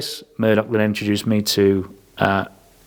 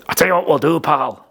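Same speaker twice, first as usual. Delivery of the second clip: higher-pitched mock Scottish accent; 6 semitones higher than usual. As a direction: have a go at a cheery Scottish lad's accent. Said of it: "do a Scottish accent. No, fuck it, I will".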